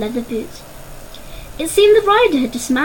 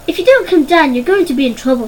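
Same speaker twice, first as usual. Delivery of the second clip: bossy warning; 3 semitones higher, 4 dB louder than usual. Acted. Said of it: "said Paz".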